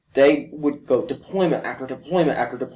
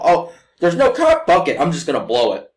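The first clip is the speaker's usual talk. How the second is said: mock sneaky driver. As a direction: play the rule-breaker spotting a chance.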